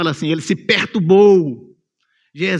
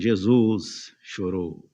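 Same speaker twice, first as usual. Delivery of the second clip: low, slow and grave; solemn verse reading; 9 semitones lower, 4 dB quieter, much slower than usual. Shown as a demonstration. Preacher reads the verse to the church, low and grave. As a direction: let it land softly and slowly. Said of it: "Verso trinta e três".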